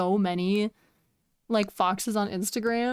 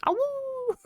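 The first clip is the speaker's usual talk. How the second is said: very high howl; wolf howl. Pretend. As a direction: join the group howl. Group howl with chat.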